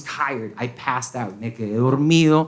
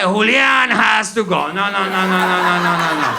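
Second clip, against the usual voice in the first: lightly voiced indignant cousin. Cousins demanding Julian's deportation, mildly mocked. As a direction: imitate a cousin insisting, then tail off.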